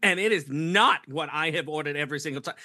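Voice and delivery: high, indignant mock New York accent; hammed-up New York customer griping. Woman back from arguing over bagels, indignant New York accent. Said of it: "That's a great accent too".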